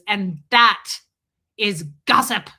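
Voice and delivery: stern, loud pause-laden verdict from the priest; imitating a harsh priest, a pause before is gossip; mean priest. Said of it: "He's, like, really mean about it".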